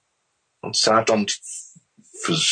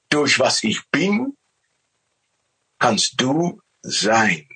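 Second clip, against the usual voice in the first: lightly raised, loving voice of God; 4 semitones higher than usual. Retold or imitated. God telling man he gives all, lightly raised voice. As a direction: speak as God offering everything. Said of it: "Er sagt".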